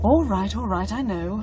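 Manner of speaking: curt, irritated brush-off; touchy. Acted. Daughter brushing off her ailing father, touchy and curt. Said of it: "You are touchy today".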